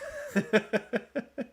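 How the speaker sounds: high staccato giggle; high rapid run of laughter. Real, not acted. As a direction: crack up at your own joke. Laughs at own joke.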